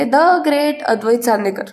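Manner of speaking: slow, drawn-out mock announcement; wife teasing the boastful husband, slow and mocking; mock grand title. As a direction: spell out his grand title slowly, teasing. Kala mocks his boast.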